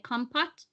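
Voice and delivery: "compote" as KOM-pot with a questioning rise; unsure pronunciation. Shown as a demonstration. Host admitting she can't pronounce it, "compote" as a tentative question. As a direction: try out "compote" with a sounded T, asking. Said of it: "I don't even know how you say it".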